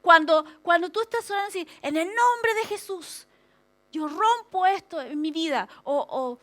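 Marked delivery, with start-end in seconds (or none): 1.8-5.7 oración declarativa. Acted. Modela una oración declarativa con autoridad.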